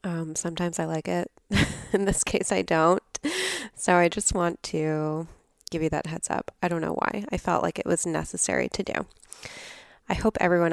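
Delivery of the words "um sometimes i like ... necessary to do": raspy, nasal sick voice. Real, not acted. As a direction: talk through a head cold. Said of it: "I sound really raspy and nasally".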